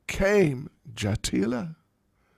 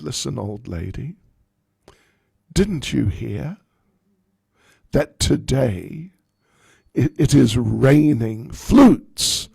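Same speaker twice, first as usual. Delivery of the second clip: cheeky retort; 7 dB louder than usual. Acted. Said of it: "Lalita said".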